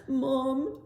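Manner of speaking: lightly voiced child saying mom; high small-boy call; little boy calling. Son calls his mother.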